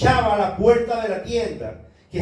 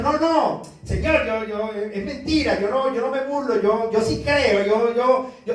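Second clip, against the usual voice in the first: mock denial. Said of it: "A veces le decimos al Señor".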